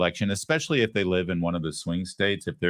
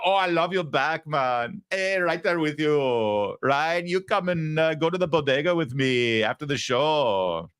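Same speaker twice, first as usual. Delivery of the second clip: put-on street-wise Bronx accent; 7 semitones higher than usual. Host mocking the politician greeting a crowd, street-wise Bronx accent. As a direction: exaggerate a street-wise New York Bronx accent. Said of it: "her Jenny from the Block accent".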